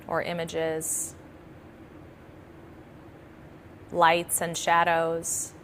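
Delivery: calm, measured meditation guidance; guided meditation. Acted. Yoga nidra teacher settling listeners into practice, calm guided meditation. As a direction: talk them gently into relaxation, leaving long pauses.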